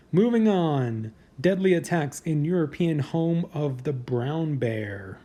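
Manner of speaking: slow countdown announcer read; drawn-out list host read; headline read. Acted.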